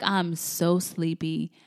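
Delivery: slow, drawn-out drowsy grumble; mildly sleepy, words stretched out. Retold or imitated. Wife too sleepy to get up, sleepy.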